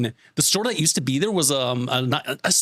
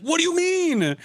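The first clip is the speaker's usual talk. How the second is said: squeaky high voice of disbelief, pleading; high incredulous whine; 11 semitones higher than usual. Retold or imitated. To the store clerk, high-pitched baffled pleading. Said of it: "but I was like".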